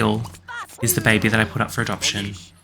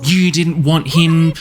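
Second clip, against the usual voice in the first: mildly upset protest, slightly raised voice; 4 semitones higher than usual. Acted. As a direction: act out an upset mother pushing back. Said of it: "show how upset she is".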